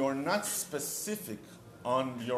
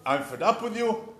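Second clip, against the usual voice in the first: angry wife; 5 semitones higher, 3 dB louder than usual. Retold or imitated. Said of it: "And your wife is".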